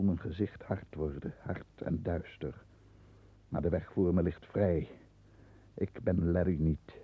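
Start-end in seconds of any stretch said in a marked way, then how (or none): none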